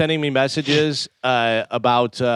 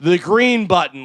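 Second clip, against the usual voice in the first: higher, more insistent exasperation; fed-up clerk; 4 semitones higher, 3 dB louder than usual. Retold or imitated. Post office clerk repeats for a clueless customer, insistently exasperated. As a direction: imitate a clerk losing patience, pitch raised. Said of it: "like that, whatever".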